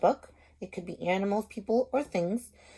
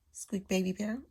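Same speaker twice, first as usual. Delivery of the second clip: storybook read-aloud voice; lively picture-book reading; reading to children. Acted. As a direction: read it like a teacher to her class. Teacher reads story aloud.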